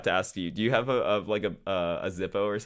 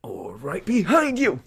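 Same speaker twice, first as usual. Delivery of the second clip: loud high whisper, laughing; jump-scare whisper; 11 semitones higher, 8 dB louder, slower than usual. Pretend. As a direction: pop out to startle someone. Spooky joke, jumps in on guest.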